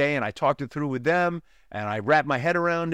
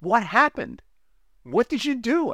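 imitating upset wife; 10 semitones higher than usual. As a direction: voice the worried wife, pitched up. Wife upset at gas station.

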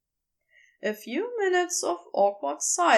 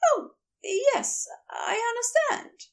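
hiding disappointment; 11 semitones higher than usual. Acted. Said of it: "tried hard not to let his disappointment show".

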